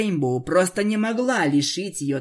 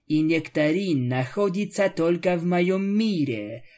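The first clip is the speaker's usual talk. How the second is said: hissing vampire. Acted. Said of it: "прошипела Аланис".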